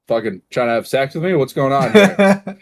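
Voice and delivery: hammed-up shock at a stranger knowing him; playfully alarmed, voice jumping up; mock alarmed. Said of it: "And I'm like".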